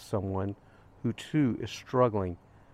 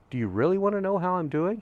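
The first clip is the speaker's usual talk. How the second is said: earnest probing question; 8 semitones higher than usual. Retold or imitated. Retold turning back to question stranger.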